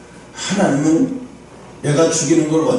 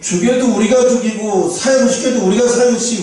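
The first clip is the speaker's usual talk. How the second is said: indignant protest; 5 semitones higher than usual. Acted. Citizen objecting to China executing a countryman, indignant. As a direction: object as if personally affronted.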